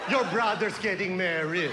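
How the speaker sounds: put-on happy news as glum Filipino-accented announcement; depressed Filipino mom. Mom announcing a wedding to her child, mock depressed. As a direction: imitate a joyless mom breaking good news. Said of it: "depression on the face".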